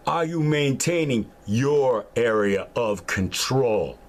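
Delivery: slow, hard drill sergeant voice. Acted. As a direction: bark it like a prison guard. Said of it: "I sound like a fucking military dude or a prison guard".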